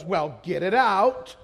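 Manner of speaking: slow, drawn-out retort; retold impatient lady. Older lady to visiting preachers, drawn-out impatience. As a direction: imitate an unimpressed lady, stretching the words. Retold curt Southern lady's reply.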